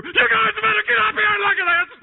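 high, loud yell down below; retold scream. Captain yelling below deck for his sleeping crew to come up, loud and high. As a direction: shout up the crew in alarm. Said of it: "I'm screaming down below".

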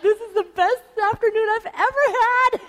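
high, dreamy lovestruck sigh of a voice; starstruck gush. Retold or imitated. Young bride gushing about a sanding afternoon, high and dreamy. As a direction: gush like a smitten newlywed. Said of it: "and it's like".

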